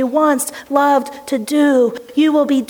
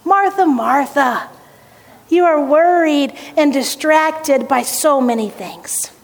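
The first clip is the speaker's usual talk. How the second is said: tender correction. Acted. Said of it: "It's this tender correction".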